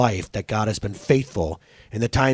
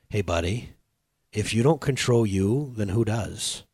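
calm fatherly talk; 4 semitones lower, 6 dB quieter than usual. Retold or imitated. Calm word to his crying son.

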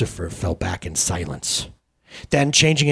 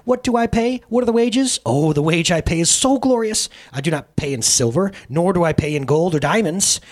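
high, loud, rapturous gloating; swooning with delight; 8 semitones higher, 5 dB louder than usual. Acted. Sin gloats over her wages, swooning with delight. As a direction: savour every word like a delight. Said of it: "almost swooning with delight".

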